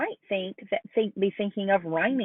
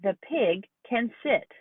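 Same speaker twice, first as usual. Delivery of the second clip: slow clear sentence; slower than usual. Shown as a demonstration. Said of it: "So listen to this sentence".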